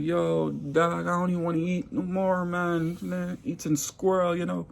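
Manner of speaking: a hint of a queasy Jamaican accent; queasy Jamaican coworker, lightly voiced. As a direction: lightly play the grossed-out Jamaican. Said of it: "the Jamaican man like".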